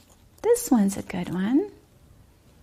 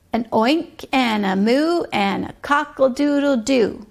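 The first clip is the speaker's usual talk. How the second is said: put-on sing-song rhyme for a child; bouncy nursery rhyme read aloud; rhythmic rhyme reading. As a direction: chant the barnyard poem with a steady beat.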